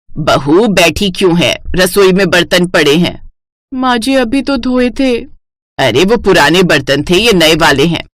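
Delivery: a hint of a stern mother-in-law; scolding mother-in-law.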